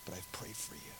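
gentle, fading into a very soft hush; tender correction. Acted. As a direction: let it sink softly to reassure. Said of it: "it's a tenderness in his voice".

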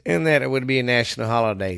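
talking through a burp; a burp breaking into the words. Real, not acted. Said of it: "I did not mean to burp in y'all's ear".

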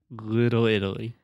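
"Little Italy" with flapped, D-like T's; model pronunciation. Shown as a demonstration. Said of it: "Think about this as a D sound".

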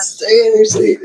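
high, urgent shouted command; yelling order. Retold or imitated. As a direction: bark it like a flight attendant.

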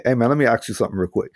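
rattled off fast and easygoing; his own casual way. Retold or imitated. Asking a stranger a casual question, fast and easygoing. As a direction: toss it out quick, like a casual favor. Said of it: "me sounding the way that I sound".

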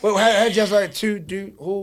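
slow, laughing mock of the Delaware accent. Mocking a friend from Delaware, slow Delaware accent. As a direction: drawl out the Delaware accent as a joke. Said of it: "the accents".

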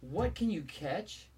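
slow suspenseful riddle; slow, drawn out. Real, not acted. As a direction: draw out the riddle. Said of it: "repeated later plainly".

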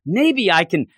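mildly excited quote; getting excited. Retold or imitated. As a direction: retell it with a touch of rising excitement. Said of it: "Getting excited".

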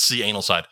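"C Anal Side" said as "see anal side"; insisted mispronunciation. Real, not acted. Host insisting on the joke name to a co-host, deliberately mispronounced. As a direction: split "C" off from "Anal" on purpose. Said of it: "I don't think so".

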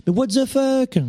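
high-pitched incredulous outburst; exasperated disbelief. Real, not acted. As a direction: burst out, baffled by the nonsense. Exasperated reaction to logo pretension.

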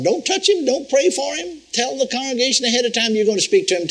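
voice of the Lord. Retold or imitated. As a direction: deliver the Lord's instruction as a lofty pronouncement. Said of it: "the word of the Lord came unto me, saying".

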